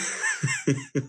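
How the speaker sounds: very high short shriek of laughter; real laugh; squealing laugh. Real, not acted. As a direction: let it squeal out. Laugh peak.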